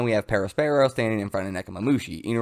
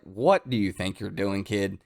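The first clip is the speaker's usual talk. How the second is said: menacing Kaido; 4 semitones lower, 5 dB quieter than usual. Acted. Kaido menacing the dragon child.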